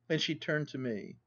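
ordinary delivery, nothing marked

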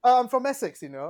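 unconvincing put-on Essex; casual mock Essex accent; badly faked Essex accent. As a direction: claim Essex in a dodgy accent. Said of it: "totally not the Essex accent".

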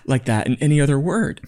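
emphatic, insistent objection; coming on strong. Real, not acted. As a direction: press the point forcefully. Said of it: "I came at you pretty strong".

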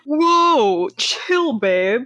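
high, drawn-out calm-down plea; mock placating boyfriend. Acting out boyfriend telling girlfriend to calm.

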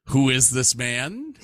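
lightly voiced indignant TV major; catchphrase impression. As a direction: quote it as the character's catchphrase. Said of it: "for several catchphrases, including".

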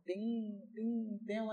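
soft, thin "ting ting ting"; lightly sung-out string twang; imitated veena plucking. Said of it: "వీణ అంటే సన్నగా ఉంటుంది".

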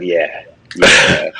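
a hint of a wrestler cheering at home; DDP impression. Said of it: "I bet D D P was at home watching, going".

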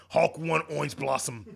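Hulk voice laughing. Pretend. Hulk caveman voice bit.

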